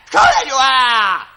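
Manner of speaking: sergeant's shout. Acted. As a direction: roar it this time. Sergeant repeats the drill order.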